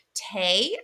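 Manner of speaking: "Te" as a lone syllable with a long A, like "tay"; "Te" sounded out on its own; broken into syllables. Shown as a demonstration. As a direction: isolate "Te" and let the A ring. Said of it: "I hear the A".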